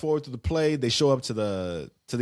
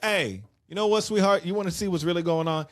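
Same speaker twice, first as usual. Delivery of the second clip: high, sugary sarcastic sweetheart; mock sarcastic sweetness; 6 semitones higher than usual. Joe grabs the phone and taunts Betty, high mock sweetness. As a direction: sneer it out sweetly, higher pitched.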